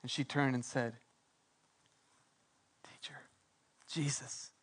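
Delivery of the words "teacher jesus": awed recognition. Acted. Mary recognizes Jesus in awe.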